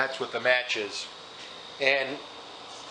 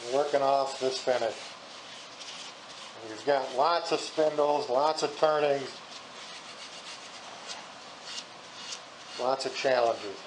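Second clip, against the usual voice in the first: talking through mask. Real, not acted. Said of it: "I'm talking through my mask".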